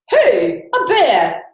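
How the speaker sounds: mock puzzled shout. Mock Captain Cook in rhyme.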